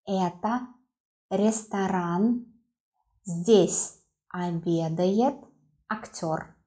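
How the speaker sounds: ресторан and Здесь обедает read slowly, word by word; slow it down for the learner. Shown as a demonstration. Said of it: "Once again".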